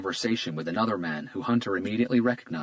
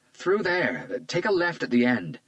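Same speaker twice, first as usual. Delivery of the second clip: reluctant; 9 semitones higher, 4 dB louder, slower than usual. A narrator's reading. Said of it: "she said reluctantly".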